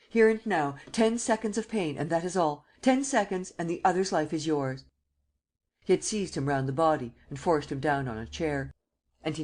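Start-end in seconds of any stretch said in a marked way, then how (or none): 0.1-4.8 shouting. Acted. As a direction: bark the order at him. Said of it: "shouted Sernine".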